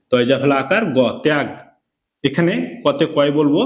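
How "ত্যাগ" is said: "ত্যাগ" with গ pulled onto ত্যা; drawn-out reading. Shown as a demonstration. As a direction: read "ত্যাগ" as one joined syllable. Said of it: "গকে তয়ের সঙ্গে টেনে পড়তে হবে".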